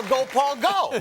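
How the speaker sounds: high-pitched race-fan yell; yelled cheer. Acted. Actor demonstrates yelling for a passing race car, yelled cheer. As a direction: cheer a driver on at full voice. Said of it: "get a chance to yell".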